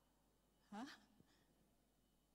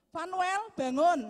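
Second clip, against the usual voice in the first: put-on calling the child much louder; louder wake-up call; 10 dB louder, slower than usual. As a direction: raise the voice to wake the son. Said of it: "Suara saya, saya kerasin". (memanggil anak lebih keras)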